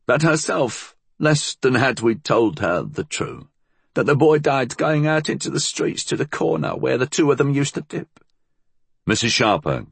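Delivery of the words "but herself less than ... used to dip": put-on high old-woman voice; high-pitched, reproachful old crone; bitter old woman. A narrator's reading.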